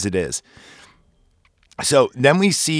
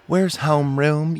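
mock Southern accent; 4 semitones higher, slower than usual. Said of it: "she's got the accent".

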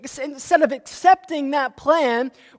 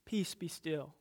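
hushed command; 8 semitones lower, 19 dB quieter than usual. Acted. Jesus calms the storm.

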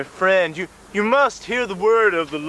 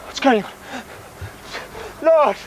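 crying out to god; 3 semitones higher than usual. Acted. Cultist cries to his god.

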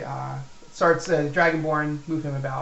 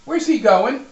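orc yelling, higher and louder; calling out; 10 semitones higher, 9 dB louder than usual. Acted. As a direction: shout across the room at the goblins. Orc calls out across room.

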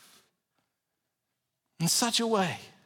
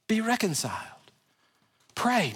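urgent whisper; 4 dB quieter than usual. Real, not acted. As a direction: whisper "Be reconciled" softly and intently. Now listen to me.

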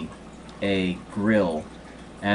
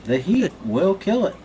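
put-on Jamaican accent; 11 semitones higher, 3 dB louder than usual. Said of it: "it's a Jamaican accent".

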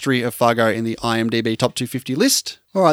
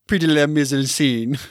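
a touch more French, with a lighter L in "Prix de la Mise en Scène"; attempted French accent. Shown as a demonstration. Host trying French for his co-host, mild French accent. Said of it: "Hey, that's heaps better".

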